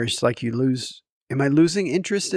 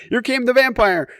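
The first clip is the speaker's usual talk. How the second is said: mock zombie voice passed off as a vampire, higher; imitating daughter's zombie voice; 10 semitones higher, 4 dB louder than usual. Dad mimics his daughter's vampire that is still a zombie. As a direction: tease the one-voice impression. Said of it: "It's not a vampire".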